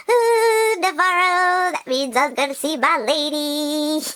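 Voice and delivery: excited. Real, not acted. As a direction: gush like a thrilled fan. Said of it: "I got all excited".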